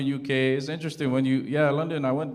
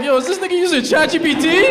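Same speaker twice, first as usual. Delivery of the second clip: much higher, louder disbelieving yell; incredulous shout; 8 dB louder than usual. Retold or imitated. Son reacting to father's message, shouting in disbelief.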